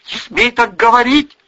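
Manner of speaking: high, loud indignant mother; indignant rebuke. A narrator's reading. Mother forbids daughter's accusations, indignant.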